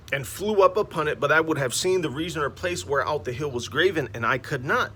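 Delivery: scripture reading. Acted. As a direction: proclaim the verses like a preacher. Reads scripture aloud.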